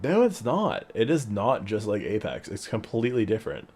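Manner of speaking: insistent. Retold or imitated. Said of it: "I'm like".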